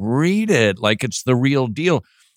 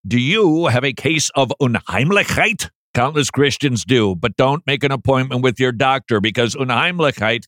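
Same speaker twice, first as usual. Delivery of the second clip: lively reading. Shown as a demonstration. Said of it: "That's how I want to read it".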